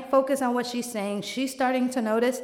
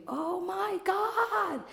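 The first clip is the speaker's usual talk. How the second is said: high, slow drawn-out wail; mock anguished wail; wailing scream; 8 semitones higher, 4 dB quieter, much slower than usual. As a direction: let it out in despair. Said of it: "I start to scream".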